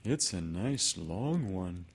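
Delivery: slow, admiring bear; impressed. Acted. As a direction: draw it out with mild wonder. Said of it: "very much impressed by it".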